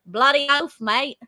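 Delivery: second try at broad Aussie; aussie tradesman. Shown as a demonstration. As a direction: say it like an Aussie bloke. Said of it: "Try again".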